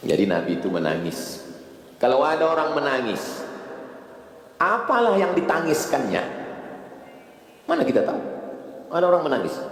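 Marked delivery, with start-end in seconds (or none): 2.0-9.6 rising rhetorical fervor. Real, not acted. Preacher raises voice, rhetorical.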